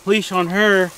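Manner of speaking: winded, gasping between phrases; catching breath after the chase. Real, not acted. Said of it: "I gotta catch my breath".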